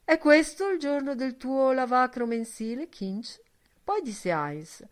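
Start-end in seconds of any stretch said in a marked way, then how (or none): 0.0-3.4 suavely. A narrator's reading. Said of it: "domandò soavemente".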